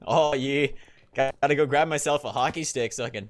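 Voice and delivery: lightly put-on Canadian accent; hammed-up Canadian hockey fan accent; mock Canadian accent. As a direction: play a stereotype Canadian. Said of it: "if you're Canadian".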